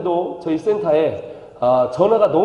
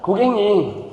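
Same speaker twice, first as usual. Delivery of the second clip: phone scammer; 2 semitones higher than usual. Pretend. Pastor mimicking a Joseonjok phone scammer to get a laugh. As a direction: play the voice-phishing caller. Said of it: "다 조선족이래요".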